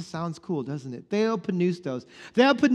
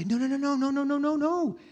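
mock protest; 6 semitones higher, 4 dB quieter, faster than usual. Acted objection to those people.

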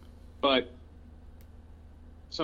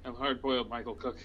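a hint of tough guy, softer; lightly voiced noir detective; 3 dB quieter than usual. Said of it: "Tough guy".

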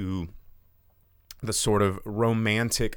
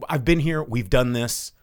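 loud, bossy orders barked at the group; bossy shout; 4 semitones higher, 5 dB louder than usual. Retold or imitated. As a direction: snap at them to shut up and get going. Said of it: "Mia Goth is just like".

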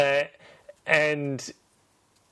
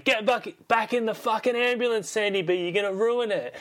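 high, urgent yell at a movie character; mock shout at the screen; 9 semitones higher than usual. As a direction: plead with her on screen, pitched way up. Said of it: "I'm shouting at the screen".

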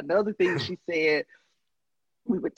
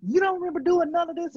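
high-pitched retold disbelief; incredulous question; 11 semitones higher, faster than usual. Older sibling quizzing forgetful little sister, incredulous. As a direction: press them in mock disbelief.

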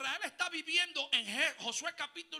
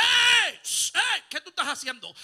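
put-on hushing a child; 2 semitones higher, 12 dB louder than usual. Parent hushing crying child.

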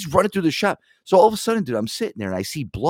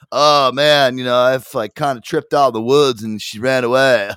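louder, even-toned stoner voice; put-on tripped-out slacker; imitated spaced-out kid; 6 dB louder than usual. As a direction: mimic a dazed teenage dog owner. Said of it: "looked like the fucking kid from".

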